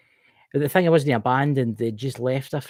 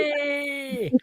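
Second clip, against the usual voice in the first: mock cheer; 13 semitones higher than usual. Real, not acted. Cheering the joke.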